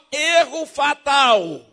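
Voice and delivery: slow, drawn-out and loud; mock fatal error readout; error message voice. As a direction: stamp it like a warning on a forehead. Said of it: "tá escrito na testa dele, ó".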